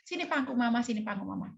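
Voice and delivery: tender coaxing. Retold or imitated. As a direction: draw the child in gently. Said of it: "dengan kelembutan".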